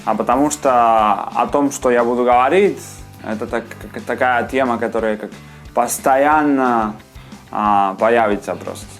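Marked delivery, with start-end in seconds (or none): none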